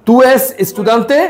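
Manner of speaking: Spanish stretched out very slowly, word by word; careful, slow textbook reading; slow teaching read. Shown as a demonstration. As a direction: spell it out slowly for the learner. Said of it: "বলতেছে".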